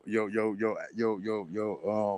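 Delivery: stuck repeating yo; stammering, can't get the words out; stuttering. Real, not acted. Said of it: "damn, bro, I'm stuttering right now".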